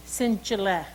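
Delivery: Sinchile as sin-chi-leh, falling; saying Sinchile. Shown as a demonstration. Telling children the word for coyote, Sinchile. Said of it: "we call him".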